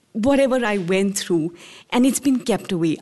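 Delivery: usual speaking voice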